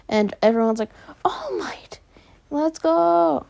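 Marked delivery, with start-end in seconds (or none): 1.2-3.5 a much higher, squealing cheer; excited cheering. Retold or imitated. Students cheering as All Might walks in, squealing. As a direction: squeal like fans seeing their hero. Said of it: "they're all excited".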